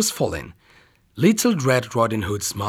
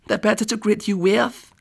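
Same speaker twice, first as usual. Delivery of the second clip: much higher sweet fake granny voice; wolf as Grandma; 9 semitones higher than usual. Wolf answers the girl in his fake granny voice. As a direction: keep up the granny act.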